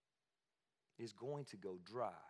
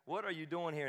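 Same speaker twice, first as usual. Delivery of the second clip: gentle God; 4 semitones higher, 3 dB louder than usual. Shown as a demonstration. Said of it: "God is like".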